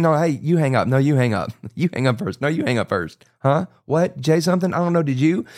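playful lovestruck phone banter; giggly late night call. Retold or imitated. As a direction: tease like a young lover who won't hang up.

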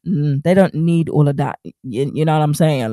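put-on a slipping American accent. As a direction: slide into a casual American accent. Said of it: "I keep going into this American accent".

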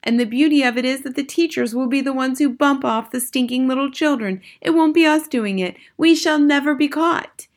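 high-pitched, excited cheering crowd; adoring shouting. A narrator's reading. Witches applauding their leader's plan, high excited shouting. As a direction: gush loudly in a high voice. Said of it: "clapping madly and shouting".

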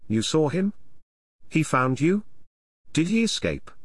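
a touch of eager pleading, lifting at the end; begging. Acted. Arabella begging Nessa for news of Kenneth, mild pleading. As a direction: ask as if clinging to hope. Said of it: "Arabella begged".

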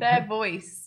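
"Their voice" as two separate words; sounding it out. Shown as a demonstration. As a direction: say a clear "Their" before "voice". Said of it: "What if you're saying their voice".

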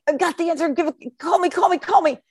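put-on high, pleading kid voice; eager little boy. Little boy begging the teacher to call on him, high-pitched. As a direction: beg to be picked like an excited child. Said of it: "this little boy raises his hand".

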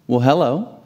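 put-on light rising greeting to a child; friendly greeting. Grocery bagger greeting five-year-old Leo, friendly. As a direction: greet a little one, lifting at the end.

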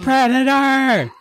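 high, drawn-out yell of warning; mock-panicked holler; retold alarm cry. Retold alarm while running away.

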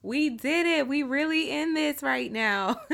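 smiling, laughing through words. Real, not acted. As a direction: grin while you talk. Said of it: "I have the biggest smile on my face right now".

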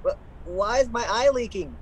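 puzzled, tearful; baffled by own tears; confused. Acted. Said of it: "you're crying".

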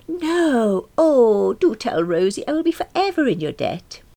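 loud, high, excited begging; gushing, high-pitched plea; eager pleading. Acted. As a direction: beg to be let in on a secret. Character begs eagerly to hear secret.

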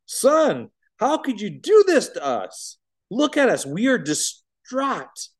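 high, loud, slow scolding mother. Acted. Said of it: "His mother scolded".

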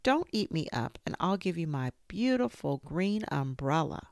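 put-on high, begging child's voice; pleading little boy. A narrator's reading. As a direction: beg the tiger in a small high voice. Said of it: "And Sean said".

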